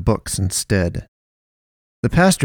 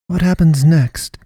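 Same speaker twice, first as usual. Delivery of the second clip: slow, louder, pondering pastoress; echoed question; 8 semitones higher, 5 dB louder than usual. A narrator's reading. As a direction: echo it back thoughtfully. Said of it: "she echoed".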